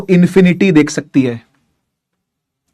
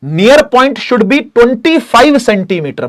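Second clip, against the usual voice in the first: slow dictation; 3 semitones higher, much slower than usual. Shown as a demonstration. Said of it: "ये याद रखना आपको".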